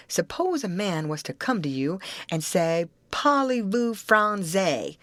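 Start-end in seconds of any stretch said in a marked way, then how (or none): 3.1-5.0 French phrase. Retold or imitated. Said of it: "That's a Frenchman's way of saying it".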